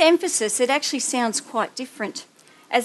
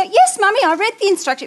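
put-on high, louder little boy voice; child's voice; 8 semitones higher, 5 dB louder, faster than usual. Mother voicing her son proudly answering, high child voice.

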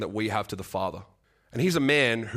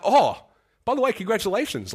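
imitating a burst of delight, higher and louder; excited; 10 semitones higher, 5 dB louder than usual. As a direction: pastor springs the good news on him, imitated with bright surprise. Pastor's excited news retold.

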